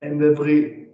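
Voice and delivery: stumbling repeats on every; catching on the syllable, restarting; stuttering. Real, not acted. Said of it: "Every stutterer has the same habit".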